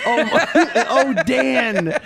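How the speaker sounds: hammed-up moan of pleasure; mock moaning. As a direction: moan it out, playfully. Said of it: "I was like".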